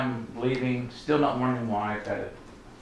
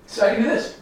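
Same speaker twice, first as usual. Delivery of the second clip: eager question; 10 semitones higher, faster than usual. Retold or imitated. Retold eager question to the Lord.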